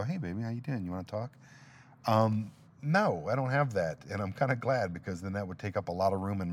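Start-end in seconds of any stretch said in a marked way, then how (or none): 0.0-1.3 imitated pillow talk. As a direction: imitate a partner rolling over to chat quietly. Imagined partner in bed at night.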